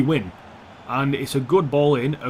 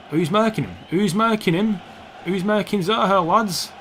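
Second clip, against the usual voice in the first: higher-pitched nagging at teammates; urgent calling out; 5 semitones higher than usual. Real, not acted. Gamer asking his defenders who is marking, urgent. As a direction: call out to your defenders, worried.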